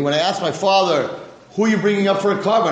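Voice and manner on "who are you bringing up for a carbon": innocent question. Acted. Young Yitzchak asking his father.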